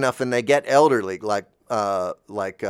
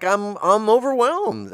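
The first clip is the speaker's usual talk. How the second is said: retold tearful overwhelm; 10 semitones higher, 5 dB louder, slower than usual. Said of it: "to weep".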